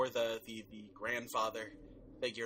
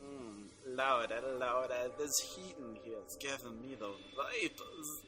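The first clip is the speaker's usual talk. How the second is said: slow, lightly put-on Southern belle accent; Southern drawl; 4 dB quieter than usual. Playing Tennessee Williams for the podcast, mild Southern drawl. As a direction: fan yourself like a Southern lady, slowly. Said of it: "Tennessee Williams".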